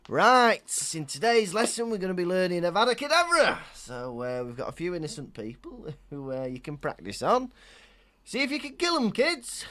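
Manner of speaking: high, loud classroom voice; mock teacher. Spoof teacher teaching a class the killing curse, brisk and high. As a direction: address the class in a high-pitched, punchy teacher voice.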